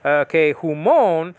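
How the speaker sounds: humon drawn out slowly; careful pronunciation. Shown as a demonstration. Teacher modelling humon for students. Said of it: "because of the mu".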